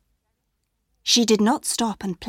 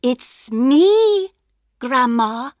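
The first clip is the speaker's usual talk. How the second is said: high, loud fake little girl; wolf pretending to be the girl; wolf faking girl voice; 3 semitones higher, 6 dB louder, much slower than usual. A narrator's reading. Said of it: "the wolf answered".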